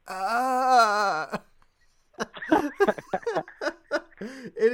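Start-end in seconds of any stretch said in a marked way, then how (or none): 0.1-1.4 a sudden sharp cry of pain, as heard on the video; short pained yelp after the nose hit. Retold or imitated. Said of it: "you just hear me in the background go".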